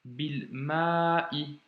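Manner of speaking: "bil ma'i" with long "ma", then caught "i"; careful reading demo of "bil ma'i"; with liaison. Shown as a demonstration. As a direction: link "bil ma'i", holding "ma" and stopping before "i". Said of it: "j'ai fait la liaison".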